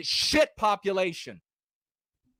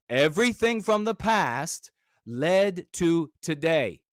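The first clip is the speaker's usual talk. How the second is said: slower and weightier, each word given room; slow emphatic repeat; 2 semitones lower, slower than usual. Real, not acted. Repeating his wisdom to viewers, slow and deliberate. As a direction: drive the point home slowly. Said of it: "Hear this piece of wisdom".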